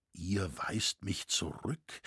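soft, slow and tender; leise und innig. A narrator's reading. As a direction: ask it gently, almost pleading. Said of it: "fragte er leise und innig". (leise und innig)

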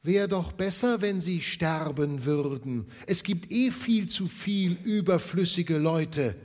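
high, loud sneering echo of Scrooge; mocking Scrooge. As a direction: throw his cold words back at him. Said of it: "Waren das nicht deine Worte?".

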